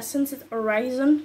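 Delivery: anglais prononcé à la française; English words in a French accent; accent anglais approximatif. Real, not acted. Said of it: "On adore mon accent anglais". (accent anglais à la française)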